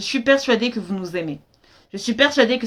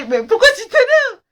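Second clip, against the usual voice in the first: laughing question; 12 semitones higher, 4 dB louder than usual. Retold or imitated. Laughs while asking father again.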